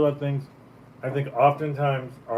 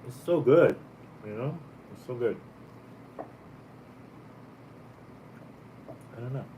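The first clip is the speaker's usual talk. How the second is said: chewing while talking; 4 dB quieter than usual. Real, not acted. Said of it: "ten minutes of me just eating this".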